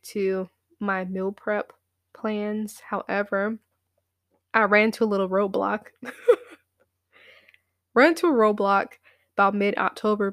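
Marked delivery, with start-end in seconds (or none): 4.5-5.8 fast, laughing through the words. Real, not acted. Laughs at roadblock.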